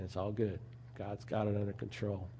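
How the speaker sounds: sleepy calm. Retold or imitated. The sleeper in the boat to the panicking disciples, drowsy soft calm. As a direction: murmur it half asleep, unbothered. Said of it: "the person asleep next to Christ, saying".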